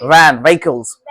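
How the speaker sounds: वैन, व्हीकल्स slowly with a clear V; slow model words for V; V sound demo. Shown as a demonstration. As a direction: stretch each word, showing the V in वैन. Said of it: "वी का pronunciation बताया था".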